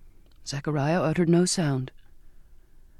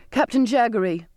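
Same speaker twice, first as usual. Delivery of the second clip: higher, louder outburst; sudden cry; 5 semitones higher, 3 dB louder than usual. Acted. Girl interrupting the flogging, a sudden cry. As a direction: blurt his name out before thinking. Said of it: "I cried out suddenly".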